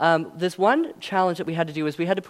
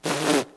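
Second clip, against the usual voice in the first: scoffing pfft. Retold or imitated. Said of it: "he's laughing".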